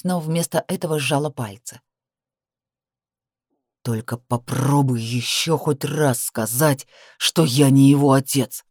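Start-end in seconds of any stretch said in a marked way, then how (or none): 3.8-8.6 low, slow growl into her lips; growled threat. Acted. Man threatens woman over their son, low slow growl. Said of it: "прорычал он мне в губы".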